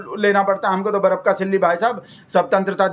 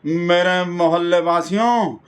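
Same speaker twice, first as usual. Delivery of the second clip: slow, pompous address to the neighbourhood; lightly hammed-up neighbour's grand speech; mock speech opening; slower than usual. Neighbour Rajesh opening his flag speech, slow and pompous. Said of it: "पता कैसे कैसे बोल रहा था".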